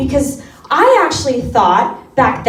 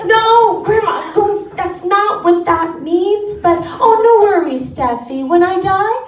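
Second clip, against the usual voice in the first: grandma voice; 5 semitones higher than usual. Retold or imitated. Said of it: "grandma reply".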